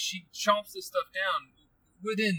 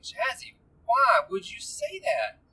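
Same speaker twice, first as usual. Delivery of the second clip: higher, drawn-out pleading question, retold; dismayed parent; 6 semitones higher, slower than usual. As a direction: ask it slowly, in mild mock alarm. Retelling confronting his daughter.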